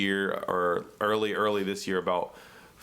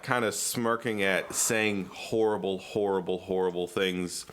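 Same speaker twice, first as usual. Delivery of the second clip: deadpan; 3 semitones lower than usual. Shown as a demonstration.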